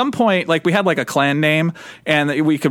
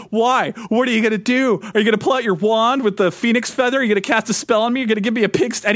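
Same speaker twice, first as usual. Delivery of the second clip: mocking, higher-pitched angry challenge; imitated frothing rage; 4 semitones higher, faster than usual. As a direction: act out a worked-up admin taunting players. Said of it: "frothing at the mouth".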